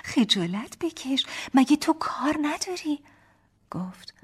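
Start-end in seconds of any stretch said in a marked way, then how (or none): 0.0-3.0 high giggle, then loud playful scolding; laugh, then scold him in jest; laughing mock scolding. A narrator's reading. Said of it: "خندیدم و گفتم".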